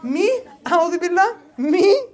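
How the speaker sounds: woman feigning offence at the brother's words; mock offended woman. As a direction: play her shocked and hurt, a touch hammed. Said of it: "Or she'll be like".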